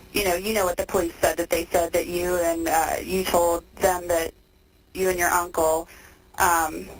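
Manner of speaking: tinny phone-line voices; payphone call. Real, not acted. Recorded phone interview with inmate.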